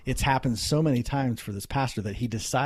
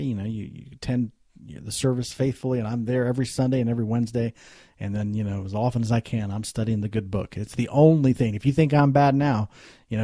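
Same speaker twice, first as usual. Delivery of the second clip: tags 1; 6 dB louder than usual. Retold or imitated. Drunk businessman voiced in story.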